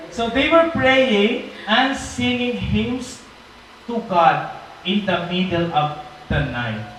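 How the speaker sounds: very slow, drawn-out preaching line; slow, reverent sermon delivery; preaching emphasis. Acted. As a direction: linger on every word for awe. Dramatic sermon retelling.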